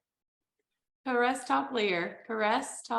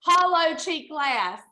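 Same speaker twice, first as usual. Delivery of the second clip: put-on Southern accent; 5 semitones higher, 4 dB louder than usual. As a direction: read it like a Southerner. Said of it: "The Southern accent works".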